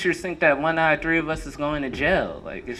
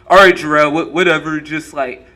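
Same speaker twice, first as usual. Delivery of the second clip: dismissive classmate; 7 dB louder than usual. Retold or imitated. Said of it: "he was like".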